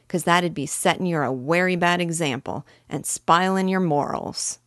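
bossy thief, heavy Cockney; gruff Cockney burglar. Acted. Burglar lectures on vulgarity.

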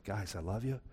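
soft, tender pleading; Jesus gently calling the believer, softly; gentle Jesus. Retold or imitated. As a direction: speak softly like Jesus at the door. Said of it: "all Jesus ever does is like".

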